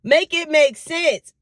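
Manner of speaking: high-pitched, indignant retelling of a complaint; upset retort. Retold or imitated. Daughter retelling her call about cards in her name, upset. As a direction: protest in disbelief, pitched well up. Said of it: "Oh, I was upset".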